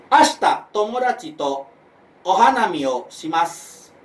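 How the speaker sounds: "Ashita tomodachi to ohanami o shimasu" slow, phrase by phrase; even intonation. Shown as a demonstration. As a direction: draw out "shimasu" without a question lift. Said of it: "Itu rata". (intonasi rata dan perlahan pada "ohanami o shimasu")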